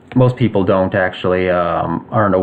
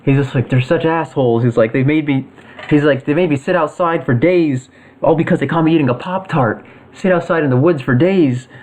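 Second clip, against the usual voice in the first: whiny rant; 5 semitones higher than usual. Acted. Angry villain ranting about parents.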